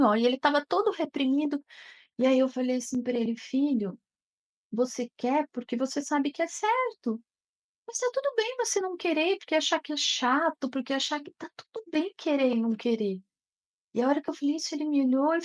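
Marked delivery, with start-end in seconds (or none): 3.3-13.2 tender reassurance. Retold or imitated. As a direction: soothe him that not wanting is okay. Mother reassures son.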